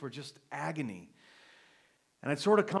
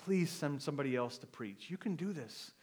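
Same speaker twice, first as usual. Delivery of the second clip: retold begging prayer; 3 semitones higher, 4 dB louder than usual. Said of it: "I'm just begging God".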